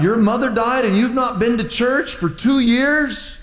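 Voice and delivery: imagined rant building to a shout; incredulous inner rant. Retold or imitated. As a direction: pour out the unspoken rebuke. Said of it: "But I thought".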